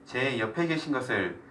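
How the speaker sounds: earnest spoken prayer, phrase by phrase; closing prayer. Real, not acted. Teacher prays aloud to God for the group, prayerful. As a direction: lead the group in prayer, leaving room for amens.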